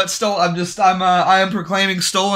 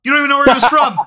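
higher, louder accusation; hammed-up interrogator pressing, higher; mock taunting; 9 semitones higher, 5 dB louder, much faster than usual. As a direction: sneer the accusation.

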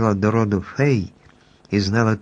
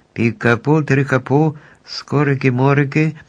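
magic incantation; 4 semitones higher than usual. A narrator's reading. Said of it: "читала далі".

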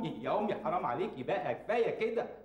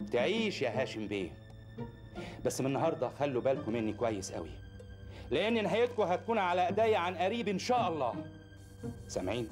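lower, menacing vow of revenge; low menacing threat; 4 semitones lower than usual. Acted. Threatening the family on leaving.

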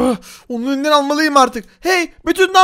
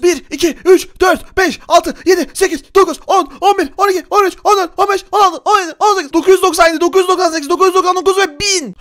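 higher, punchy rep count; quick-fire counting; 3 semitones higher than usual. Pretend. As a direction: count off reps in a rapid burst. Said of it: "Bunu hızlı hızlı yaparsam". (hızlı hızlı, yüksek perdeden sayarak)

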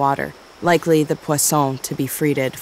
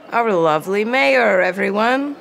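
put-on drunk, slurring, higher disgusted woman; slurred disgust; 4 semitones higher than usual. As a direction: slur it out with contempt. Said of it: "slurred a disgusted woman".

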